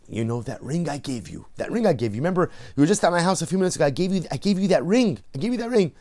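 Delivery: a touch of mock panting; out of breath. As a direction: lightly play breathless after the chase. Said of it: "panting, out of breath".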